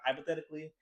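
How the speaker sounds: a hint of a pundit impression; Ben Shapiro. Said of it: "talks like this".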